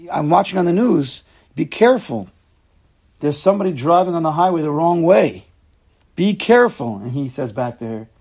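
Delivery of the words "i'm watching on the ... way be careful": a hint of a fretting wife, louder and higher; worried wife. Wife phones elderly husband on highway, mildly worried warning. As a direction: warn him anxiously, mock-worried.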